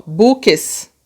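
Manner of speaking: BUQUES slowly sounded out; demonstrated sound. Shown as a demonstration. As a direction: show the sound of BUQUES, bu-ques. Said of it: "ele tem o som aqui".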